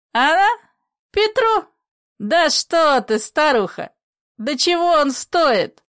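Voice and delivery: put-on an old man bursting out, high and loud; agitated exclamations. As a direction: blurt it out in alarm. Character's outburst in play reading.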